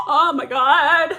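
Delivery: very high squeal breaking into laughter; real excited shrieking. Real, not acted. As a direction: squeal in shocked delight, laughing through it. Shocked delight at a reveal.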